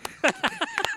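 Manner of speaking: corny dad laugh. Real, not acted. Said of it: "He's laughing at his own joke".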